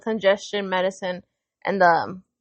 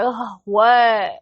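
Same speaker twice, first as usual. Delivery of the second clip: mock put-upon kid, huffing; huffy, drawn-out retort; with attitude. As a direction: imitate a child's irritated answer. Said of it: "when they catch an attitude".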